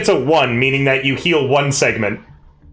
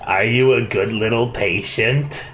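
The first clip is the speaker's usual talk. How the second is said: creepy healer voice. Acted. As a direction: lure the patient in creepily. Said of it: "doing Kappa's voice".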